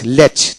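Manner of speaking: "ল্যাচ" with one closing ch, no separate C; silent letter. Shown as a demonstration. Teacher showing learners a silent letter, "ল্যাচ" ending in plain ch. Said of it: "সি উচ্চারিত হবে না".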